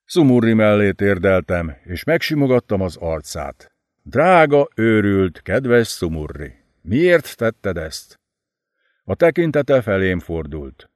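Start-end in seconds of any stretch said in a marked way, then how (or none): 4.1-8.2 cradle the dying man with your words; tender grief. Acted. Narrator tenderly asks dying Szumurri why, slowly.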